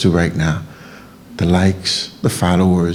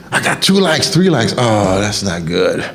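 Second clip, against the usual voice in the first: mock like-chaser. Mocking a social media user.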